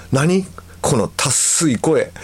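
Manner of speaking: husband's dismissive jab, slow on the end; mock rude remark. Husband reacting to the CD, mock rude. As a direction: read out a rude outburst, drawn out. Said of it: "暴言の数々".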